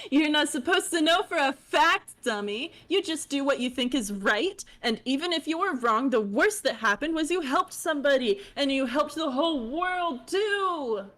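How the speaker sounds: high bubbly chatty voice; high fish girl voice. Acted. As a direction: chirp it like a bubbly troll. Holds character voice.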